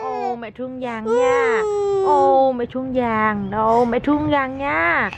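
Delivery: slow, drawn-out comforting coo; soothing. Real, not acted. Mother slowly cooing comfort to her crying girl. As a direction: stretch each word to calm her.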